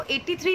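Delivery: एटी थ्री said as one number; wrong reading. Shown as a demonstration. Teacher warning the class against the wrong reading एटी थ्री. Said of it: "नहीं पढ़ेंगे".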